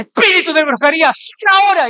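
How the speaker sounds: voz aguda y solemne de exorcismo; pastor exorcista imitado. Retold or imitated. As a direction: ordena con fuerza al espíritu. Pastor expulsando demonios. (imitando una orden de exorcismo)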